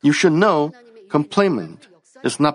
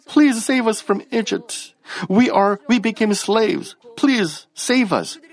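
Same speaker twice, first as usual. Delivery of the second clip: high, pleading plea, slowing on the last please save us; mock pleading; 8 semitones higher than usual. Pastor voicing the slaves' prayer, higher mock plea. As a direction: beg like slaves crying out to God. Israelites begging to leave Egypt.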